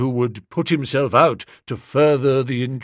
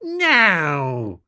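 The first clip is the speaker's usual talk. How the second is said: scornful no; 3 semitones higher than usual. A narrator's reading. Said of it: "registering scorn".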